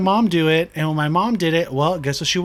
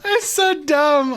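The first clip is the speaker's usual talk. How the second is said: amused; 11 semitones higher, much slower than usual. Real, not acted. Laughing at own joke.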